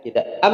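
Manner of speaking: am said abruptly, the M cut short and pitched high; the jolted M to avoid; wrong am. Shown as a demonstration. Teacher showing students the wrong startled am. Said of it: "enggak, ya".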